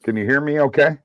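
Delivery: muffled, far from the mic. Real, not acted. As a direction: voice muffled as through a wall. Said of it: "you sound, like, muffled".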